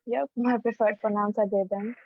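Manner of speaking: choppy call audio cutting out; breaking audio. Real, not acted. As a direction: voice glitching over a bad connection. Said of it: "your audio is breaking".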